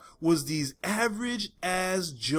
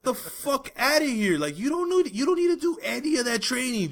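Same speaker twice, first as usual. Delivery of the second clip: laughing rant; 7 semitones higher than usual. Real, not acted.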